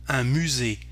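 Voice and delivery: "musée" ending on "ay", final E silent. Shown as a demonstration. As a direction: stop "musée" on the "ay" sound. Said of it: "we don't pronounce the E".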